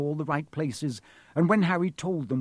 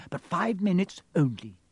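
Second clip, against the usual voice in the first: raised-pitch grudging nurse; strict concession; 6 semitones higher than usual. A narrator's reading. Nurse grudgingly lets friends in, strict. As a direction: give in, but set a firm limit.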